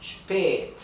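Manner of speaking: "Spät" with the ä held long; "Spät" said slowly with a long open ä; long vowel. Shown as a demonstration. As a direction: stretch the ä in "Spät". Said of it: "se pronuncia un poco más larga".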